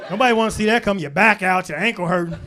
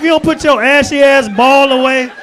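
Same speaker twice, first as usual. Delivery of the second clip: sassy women retort; 5 dB louder than usual. Retold or imitated. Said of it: "Women like".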